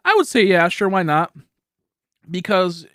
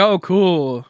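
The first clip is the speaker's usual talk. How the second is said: slow, sarcastic, unimpressed; 4 dB louder, much slower than usual. Pretend. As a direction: fake enthusiasm, clearly let down. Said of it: "It's like".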